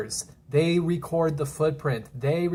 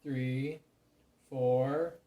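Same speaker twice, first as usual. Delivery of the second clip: soft counting, picking up again; quietly resume counting; counting under breath; 3 semitones lower, 8 dB quieter than usual. Acted. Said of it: "You made me lose count".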